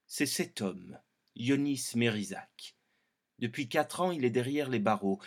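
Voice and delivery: tense, measured true crime voice; true crime narration. Shown as a demonstration. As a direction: build suspense like a crime documentary. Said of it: "Documentaire fait divers".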